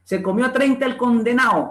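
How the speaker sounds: CONDENAO without its D, ending -AO; dropped D. Acted. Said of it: "ahí está la pérdida de la D intervocálica".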